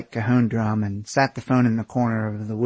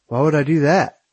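higher, puzzled, clueless voice; baffled dim guy; 4 semitones higher, 4 dB louder than usual. Acted. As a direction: play him totally clueless. Aaron baffled.

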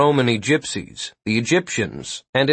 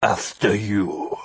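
slow, low, muffled through tentacles; muffled monster voice; 4 semitones lower, 3 dB quieter, slower than usual. A narrator's reading. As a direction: speak through a mouthful of tentacles. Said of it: "In a tentacle-muffled voice".

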